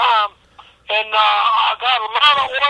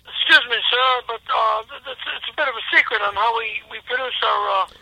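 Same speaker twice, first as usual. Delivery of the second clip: put-on half-held Texan accent; faltering fake Texan; slipping Texas accent. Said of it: "You're losing your Texas accent".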